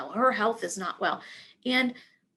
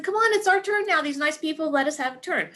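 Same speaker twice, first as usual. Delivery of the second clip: eager call; 4 semitones higher, 3 dB louder than usual. Retold or imitated. Calling her to the front.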